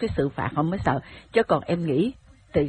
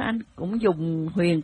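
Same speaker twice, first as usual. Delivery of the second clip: usual speaking voice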